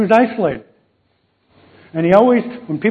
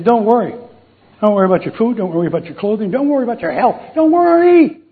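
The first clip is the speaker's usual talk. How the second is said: building emphasis; 4 semitones higher, faster than usual. Acted. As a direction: build each "don't worry" until the last one rings out. Scripture quote building to climax.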